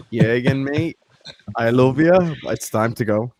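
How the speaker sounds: lightly put-on Scouse with Jordanian tinge; Scouse Jordanian accent. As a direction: attempt a Scouse lilt over a Jordanian accent. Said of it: "your Scouse Jordanian accent is pretty good".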